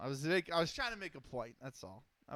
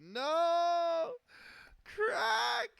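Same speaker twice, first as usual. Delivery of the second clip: much higher, louder squealing protest; mock outrage; 13 semitones higher, 6 dB louder than usual. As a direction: yelp it like a wounded friend. Playful protest at chat teasing.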